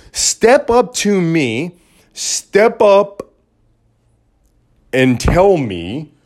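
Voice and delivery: slow, grand challenge to the brave; dramatic challenge. Acted. Daring the brave listeners, slow and grand. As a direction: draw it out like a showman.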